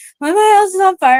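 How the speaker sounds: very high crying. Retelling a call to nine one one about the house fire: retelling a tearful call. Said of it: "I'm crying".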